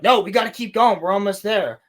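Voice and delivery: half-hearted hammed-up push to keep going; mock insistent push. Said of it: "And Ezra Miller's like".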